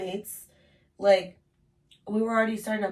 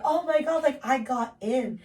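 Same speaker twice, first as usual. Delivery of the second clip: excited squeal; 5 semitones higher, 4 dB louder than usual. Retold or imitated. Excited retelling of acceptance.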